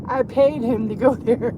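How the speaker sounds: laughing through the words. Real, not acted. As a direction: chuckle mid-sentence. Laughing at the absurd story.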